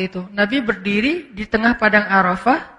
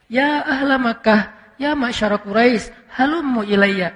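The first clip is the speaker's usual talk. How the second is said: gentle call. Shown as a demonstration. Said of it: "Nabi nggak gitu teriaknya".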